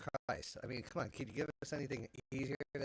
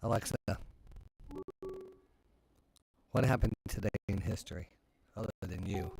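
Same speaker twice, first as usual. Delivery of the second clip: talking to voice assistant; 3 semitones lower, 3 dB louder than usual. Real, not acted. Asking Alexa a question.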